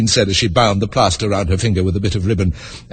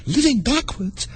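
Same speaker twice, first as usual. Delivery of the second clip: high, slow amazed echo; astonished girl echoing the phrase; 13 semitones higher, 4 dB quieter, slower than usual. Acted. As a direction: repeat it in disbelief. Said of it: "Alice repeated in great astonishment".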